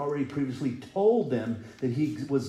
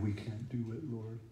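mock weeping; 5 dB quieter than usual. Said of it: "They cried".

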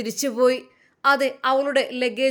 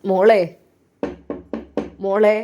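calling out; 5 semitones lower, 6 dB louder than usual. Acted. Father calls daughter through door.

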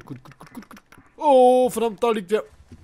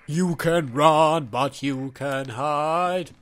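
mock movie villain; 5 semitones lower, much slower than usual. Gamer quotes villain line at monster.

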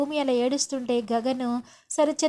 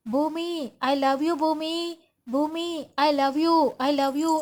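slow, drawn-out calls of love, a touch raised; loud declaration; 3 semitones higher, much slower than usual. Acted. Gagan calling his love to Bhoomi aloud, slow and drawn out. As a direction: call out your love slowly, lingering on each word. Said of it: "అని చెప్పి గట్టిగా చెప్తాడు".

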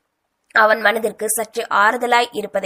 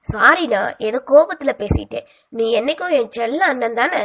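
pleading sweetly. Acted. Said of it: "கெஞ்ச".

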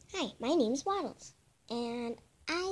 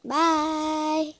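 loud goodbye; 8 dB louder, slower than usual. Real, not acted.

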